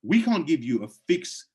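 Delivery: ordinary delivery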